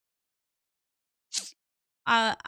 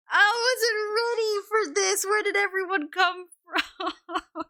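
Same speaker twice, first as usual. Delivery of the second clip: flustered surprise; 9 semitones higher, 4 dB louder than usual. Real, not acted. Surprised by viewers.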